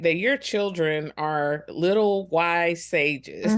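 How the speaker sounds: amused, half-laughing aside; grinning laugh in the voice. Real, not acted. Amused remark about wise kids.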